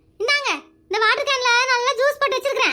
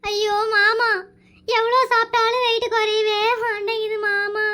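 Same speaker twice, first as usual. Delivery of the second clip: long sing-song wail; comic tearful whine; hammed-up crying; slower than usual. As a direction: draw the complaint out into a mock sob. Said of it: "எதுக்கு அழுதுகிட்டு இருக்கிற?".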